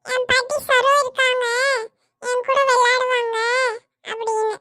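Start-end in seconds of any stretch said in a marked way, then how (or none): 2.2-4.6 whiny crying. Acted. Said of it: "ஏன்டா அழுதுட்டே வர?".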